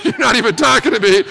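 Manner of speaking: chuckling through the words at the awkward moment; laughing. Real, not acted. Preacher to the congregation, recalling the silent young man, laughing. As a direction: laugh it off as you say it.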